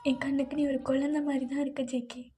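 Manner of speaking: tender, halting voice with long pauses; tearful farewell letter. Acted. Wife's last letter to JK, tender and tearful. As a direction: speak a last letter gently, close to tears.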